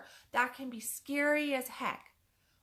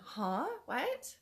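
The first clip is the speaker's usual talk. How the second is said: baffled son; 4 semitones higher than usual. Retold or imitated. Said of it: "he's going".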